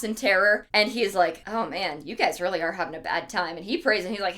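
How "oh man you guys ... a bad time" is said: low, soft mock sympathy; sympathetic cherub. Cherub pitying Adam and Eve, softly sympathetic. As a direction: voice a concerned cherub, low and quiet.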